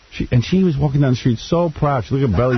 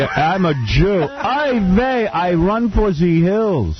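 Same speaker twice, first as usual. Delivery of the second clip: higher, slow hammed-up Jewish voice; mock Jewish caricature; 7 semitones higher, much slower than usual. Friend playing a Jew fleeing, hammed-up high voice. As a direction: whine it like a comic caricature.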